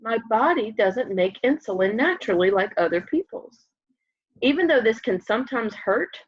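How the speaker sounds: gentle storybook reading voice; lively picture book read-aloud; reading to children. Acted. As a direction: read it aloud like story time for little kids.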